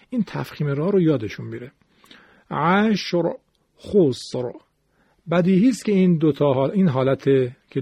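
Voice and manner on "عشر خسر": عشر، خسر with a thick, full final ر; heavy R. Shown as a demonstration. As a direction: recite عشر، خسر, each ending on emphatic ر. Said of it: "ضمه باعث تفخیم را هست". (عشر، خسر با رای درشت)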